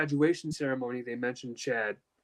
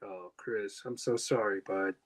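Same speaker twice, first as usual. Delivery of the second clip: gentle sympathy; 5 semitones lower, slower than usual. Retold or imitated. Uncle consoling him over phone.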